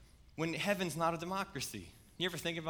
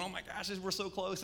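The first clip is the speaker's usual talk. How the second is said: put-on giddy child; 5 semitones higher than usual. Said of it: "he's getting so giddy".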